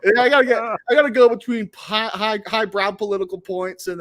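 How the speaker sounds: high, loud words pushed out through laughter; laughing while talking. Real, not acted. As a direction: laugh through the line, then let it fade. Laughing at his own crude joke.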